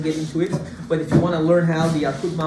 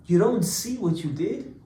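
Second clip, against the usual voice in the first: gentle reassurance. Retold or imitated. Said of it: "Yosef answers to them and says".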